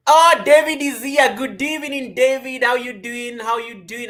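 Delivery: high, loud, slow welcome; light up at his arrival; excited greeting. Real, not acted. Streamer welcoming a viewer who just joined, excited.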